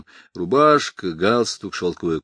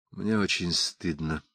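ashamed; 6 dB quieter, slower than usual. Acted. Connor ashamed, quiet.

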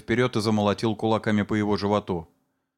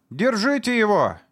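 high, louder frightened scream; frightened cry; 12 semitones higher, 4 dB louder than usual. A narrator's reading. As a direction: cry out in fear. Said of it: "испуганно вскрикнула мать". (испуганный вскрик)

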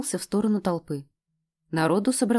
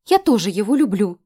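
loud fan shout; 2 semitones higher, 7 dB louder than usual. A narrator's reading.

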